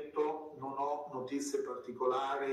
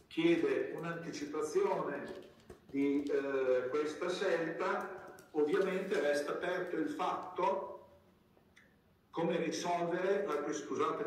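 speaking through a face mask; words through a mask. Real, not acted. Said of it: "mi tolgo la mascherina perché mi impedisce un po' di parlare".

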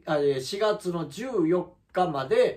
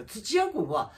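higher, slow and drawn out, building the point; higher, slowed, indignant emphasis; heated emphatic rant; 10 semitones higher, 3 dB louder, slower than usual. Real, not acted. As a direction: lean hard on each word in indignation. Heated rant about rival streamer.

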